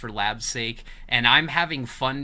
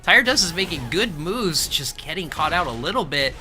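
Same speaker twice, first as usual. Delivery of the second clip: excited play-by-play; 4 semitones higher, 4 dB louder than usual. Real, not acted. High loud play-by-play.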